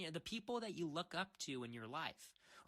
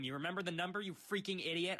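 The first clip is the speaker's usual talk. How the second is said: mock anger; 3 semitones higher, faster than usual. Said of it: "I'm getting mad here".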